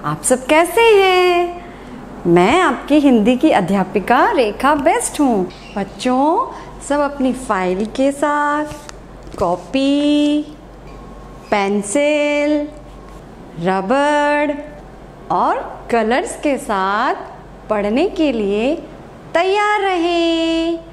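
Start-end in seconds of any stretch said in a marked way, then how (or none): 0.0-1.6 cheerful class greeting. Real, not acted. Teacher greeting her pupils, a cheerful raised hello. 5.8-20.8 put-on slow, drawn-out list for young pupils; slow classroom instructions. Teacher listing supplies to children, slow and sing-song.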